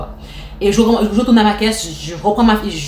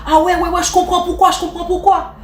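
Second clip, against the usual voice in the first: sarcastic customer; 8 semitones higher than usual. Retold or imitated. Irritated customer retorts.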